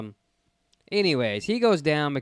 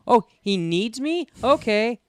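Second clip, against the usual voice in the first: higher, louder mock surprise; pitched-up, drawn-out eager agreement; mock eager reply; 9 semitones higher, 6 dB louder, slower than usual. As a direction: play a coward jumping at an excuse. Mimicking Janos eagerly leaving.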